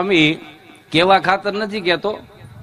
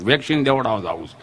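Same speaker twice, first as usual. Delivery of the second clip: quoting the friend; 9 semitones lower, 5 dB quieter, faster than usual. Retold or imitated. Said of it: "મને કહે કે".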